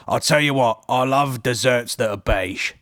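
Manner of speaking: slow, deliberate mock judge; hammed-up food-critic pronouncement; Greg Wallace impression. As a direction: lean in and savour each word. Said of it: "he goes".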